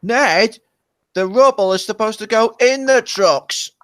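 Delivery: a light Ned the digger impression. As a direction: voice Ned scolding gently. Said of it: "the same Ned voice".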